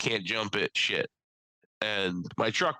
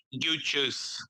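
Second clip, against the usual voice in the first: Sebastian's catchphrase; 4 semitones higher than usual. Retold or imitated. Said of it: "one of his really famous quotes, he's like".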